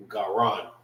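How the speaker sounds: "Garan" as gah-RAHN; "Garan" ending like "on"; Hebrew A's. Shown as a demonstration. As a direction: say "Garan" softly with ah in both syllables. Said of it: "we say our A's differently".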